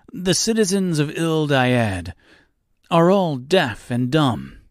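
a proud host lamenting his townsfolk; pompous host. Acted.

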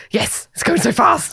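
excited reaction. Retold or imitated. Acting out reaction to speeding bike.

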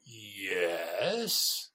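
guarded, doubtful yes; suspicious reluctant yes; wary yes. Retold or imitated. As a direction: say yes with clear misgivings. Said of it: "with a tone of voice that says".

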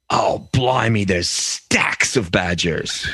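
put-on British accent, drawn out; British pub local. Friend's story of a pub local, mock British accent. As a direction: imitate a British pub-goer. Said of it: "And then the guy".

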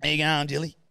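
hammed-up chummy hello, mimicking a friend; imitating co-host. Host mimics co-host sitting down with mum, hammed-up greeting. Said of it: "you went like this".

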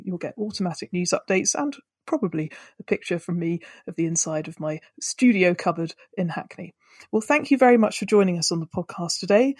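poor home studio sound; recorded in a cupboard, thin audio; low quality stream. Real, not acted. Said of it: "Sorry about the sound quality not being as good as usual".

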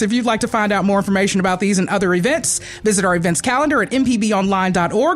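rapid-fire auctioneer patter; fast auctioneer voice. Acted. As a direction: rattle the info off like an auctioneer. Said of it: "That's my fast auctioneer voice".

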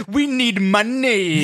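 slow, laughing mock tough voice; imitating gruff demand. Co-host mocking his partner's new bunker talk, slow and laughing. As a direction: parrot her tough new tone. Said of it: "This bunker has changed your, the way you speak".

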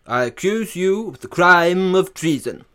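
roaring tyrant king. Acted. King accuses son.

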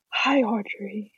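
slow put-on deep voice; fake deep voice. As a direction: imitate a guy forcing a deep voice. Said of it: "he made his voice sound, like, super, super deep".

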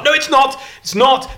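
high, loud exasperated denial; emphatic rebuttal. Real, not acted. Speaker rejecting life imitating art, loud and exasperated. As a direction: burst in with loud contradiction. Rebuts the sunset remark he quoted.

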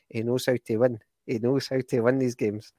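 lightly attempted Irish accent; a hint of Irish accent, imitating a manager; Irish accent impression. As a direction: have a half-hearted go at Brendan Rodgers' Irish accent. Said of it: "that was better than your Irish accent".

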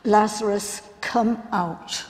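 loud, commanding call; Jesus calling Lazarus out of the tomb, loud. Acted. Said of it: "In a loud voice".

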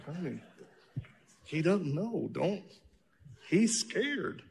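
soft, laughing reply to his wife; laughing plea. Retold or imitated. Husband laughing, softly defending the pastor to wife. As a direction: chuckle while calming her down. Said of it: "And I'm like".

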